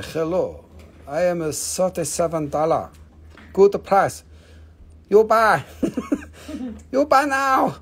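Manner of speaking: mock pushy seller. Seller hawking to viewers in a hammed-up broken-English voice. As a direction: push the sale like a cartoon street vendor.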